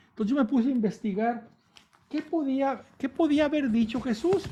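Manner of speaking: ordinary talk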